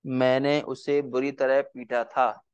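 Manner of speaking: मैंने उसे बुरी तरह पीटा था, धीरे धीरे शब्द शब्द अलग करके; बच्चों को लिखवाने के लिए धीमे बोलें; slow dictation. Shown as a demonstration. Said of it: "एक वाक्य और लिखिए". (धीमी लिखवाने वाली आवाज़)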